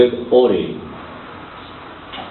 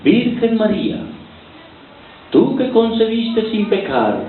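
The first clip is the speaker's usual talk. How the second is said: mock prayer; 9 semitones higher than usual. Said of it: "Decía en su oración esta chica".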